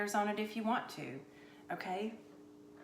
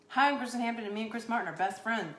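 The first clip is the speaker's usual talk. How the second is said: braggy intro; 3 semitones higher, faster than usual. Shown as a demonstration. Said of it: "that would be rude and so showy".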